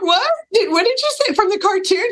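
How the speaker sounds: high-pitched incredulous retelling; retold disbelief. Host recalls guest's cartoon song pick, retold astonishment.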